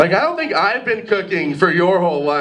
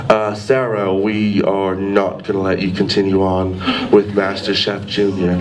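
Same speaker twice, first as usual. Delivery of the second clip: Gordon Ramsay; 12 semitones lower than usual. Retold or imitated. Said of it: "I just wanted Gordon Ramsay to be like".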